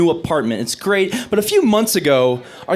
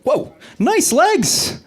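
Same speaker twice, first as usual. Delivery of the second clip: mock leering guy; 10 semitones higher, much slower than usual. Imagined man admiring woman.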